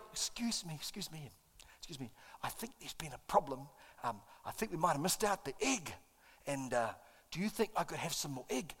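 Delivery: very soft, hesitant asking; timid polite request. Retold or imitated. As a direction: ask meekly, almost under your breath. Politely asking staff for egg.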